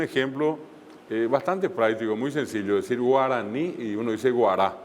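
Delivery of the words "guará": "guará" with a plain Spanish g and oral r; "guará" fully oral, with a common g; ordinary oral G. Shown as a demonstration. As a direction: say "guará" with no nasality. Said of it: "Allí está la G común y corriente".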